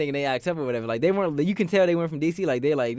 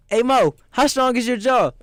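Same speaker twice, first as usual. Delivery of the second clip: slow, higher, louder taunting threat; mock threat; 9 semitones higher, 6 dB louder, slower than usual. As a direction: drawl the taunt as if ready to fight. Friend's threatening retort retold.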